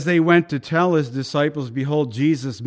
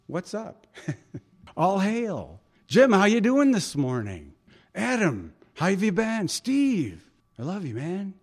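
friendly greeting; 3 semitones higher than usual. Retold or imitated. Jesus greeting by name, casual.

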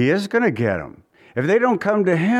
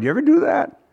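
rising question; 11 semitones higher, faster than usual. Real, not acted. Preacher's rhetorical question.

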